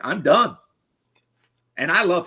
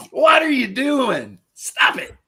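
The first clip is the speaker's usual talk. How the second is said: high, loud, drawn-out cry of disbelief; exaggerated high-pitched objection; mock protest; 11 semitones higher, 6 dB louder, slower than usual. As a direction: mimic the crew yelling at him to quit, hammed-up. Acted group protest at the Swede's antics.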